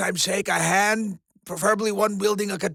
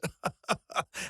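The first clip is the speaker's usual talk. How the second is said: soft run of ha-has; amused chuckle; 9 dB quieter than usual. Acted. Host enjoys the ominous air quotes, chuckling softly. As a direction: chuckle quietly to yourself.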